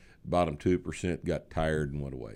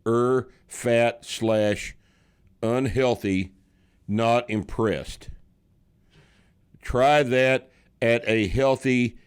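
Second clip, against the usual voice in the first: slow, raised declamatory reading; comment read-out; 5 semitones higher, 5 dB louder, slower than usual. Acted. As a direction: spell out the comment in deliberate chunks. Reads a listener comment aloud.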